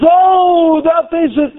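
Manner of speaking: high, swelling cry of wonder; amazed discovery. Acted. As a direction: let the "Oh" soar as if just seeing it. Voicing one who looks and marvels.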